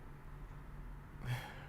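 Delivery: long quiet sigh. Acted. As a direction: let out a soft, breathy sigh. Heavy pause before speaking.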